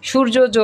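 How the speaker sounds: সূর্য জ said as shur-jo-jo; wrongly doubled J. Shown as a demonstration. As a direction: tack an extra jo onto সূর্য জ. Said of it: "এরকম বলি আমরা?".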